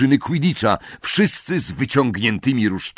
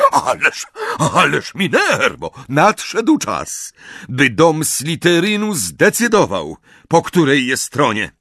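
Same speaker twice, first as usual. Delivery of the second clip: put-on flustered old wizard; 5 semitones higher, 3 dB louder than usual. Slughorn pleading.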